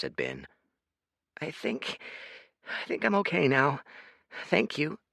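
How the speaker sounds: lightly voiced child; sniffling boy.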